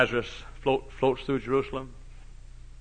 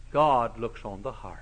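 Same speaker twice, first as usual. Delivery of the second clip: mocking excuse; 5 semitones lower than usual.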